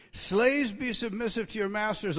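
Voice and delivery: emphatic scripture reading. Acted. Preacher reads verse forcefully.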